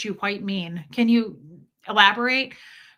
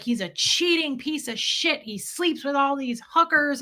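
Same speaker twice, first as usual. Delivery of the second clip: retold rant in a higher voice; mock tirade, pitched up; going off; 6 semitones higher than usual. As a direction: imitate an indignant wife venting. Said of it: "Like, she goes off".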